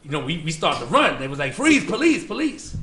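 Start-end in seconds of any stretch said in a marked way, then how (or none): 1.5-2.8 higher, louder retold yell of freeze; imitating a cop yelling freeze, police; mock police shout. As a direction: bark it like a cop chasing you.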